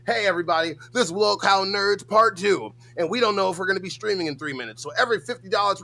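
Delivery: mock show announcer. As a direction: announce it big to the whole audience. Mock show opening to the audience.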